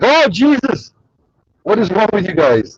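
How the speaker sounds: high, loud cry of alarm; acted-out startled, exasperated yell; retold shocked outburst. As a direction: yelp it out, then scold them in protest. Retold shock at being microwaved.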